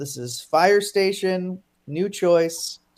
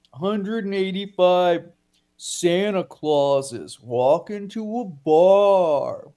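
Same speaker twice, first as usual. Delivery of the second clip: slow, drawn-out game host announcement; announcer setup; much slower than usual. Pretend. Host launches the Santa Claus round, slow announcer delivery. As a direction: stretch it out like a show announcer.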